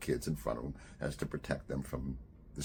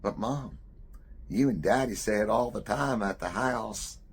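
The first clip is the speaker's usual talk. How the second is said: put-on high, loud child's whine of protest; child arguing back, pitched up and loud; protesting kid; 8 semitones higher, 7 dB louder than usual. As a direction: protest to mom like a little boy. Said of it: "the kid looks up".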